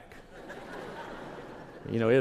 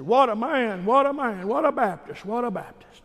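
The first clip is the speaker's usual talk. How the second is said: much higher, admiring exclamations; dad marvelling; 11 semitones higher than usual. Retold or imitated. Father praising the generous Baptist, much higher and admiring. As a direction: let dad marvel at the man. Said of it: "And then he said".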